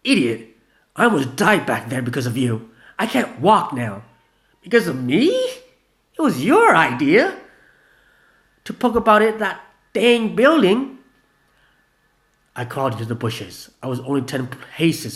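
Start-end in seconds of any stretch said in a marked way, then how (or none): 0.0-4.0 loud bitter blame; angry accusation. Acted. Gina blaming Vanilla, loud bitter voice. 4.6-11.0 high, loud, slow outraged comeback; indignant retort. Acted. Vanilla throwing the blame back, outraged.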